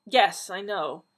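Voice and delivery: loud slow irritated snap; snapping. Acted. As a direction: bite back with irritation. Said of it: "the doctor snapped".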